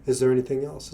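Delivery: really mean it as an offer to listen; sincere. Shown as a demonstration.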